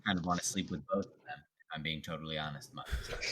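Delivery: low, quick aside, fading away; confidential aside. Acted. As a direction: confide it under your breath, trailing into near-silence. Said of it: "I lean over to Marcus and I just say".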